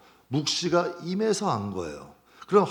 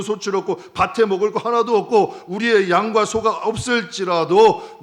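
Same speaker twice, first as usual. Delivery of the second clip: loud, fervent declaration of faith despite loss; joyful confession; 5 semitones higher, 7 dB louder than usual. Retold or imitated. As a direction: proclaim joy with full force. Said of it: "얘기를 하는 거예요". (기쁨으로 외치는 신앙 고백)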